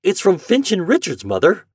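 put-on high, loud boyish excitement; excited cry. A narrator's reading. Boy reading a telegram to his mother, excited. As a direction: cry the news out to your mother. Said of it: "he cried excitedly".

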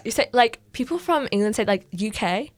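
put-on explaining in a shaky-grasp British accent; bad British accent. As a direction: keep up an amateur British accent. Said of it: "This is such a bad accent".

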